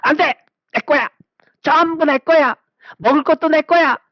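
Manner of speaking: put-on high, whiny child claiming everything; greedy child. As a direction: grab it all like a greedy kid. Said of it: "해갖고".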